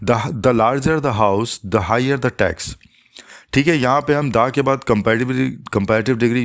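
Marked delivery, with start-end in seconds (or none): 0.1-2.7 each word set apart, very slow and deliberate; slow example read. Shown as a demonstration. Teacher reading an example sentence to viewers, very slow and clear. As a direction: read the example slowly for students. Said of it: "जैसे मिसाल के तौर पे".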